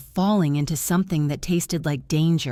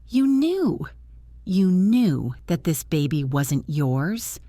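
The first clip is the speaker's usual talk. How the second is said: angry. Acted. Furious accusation in tears.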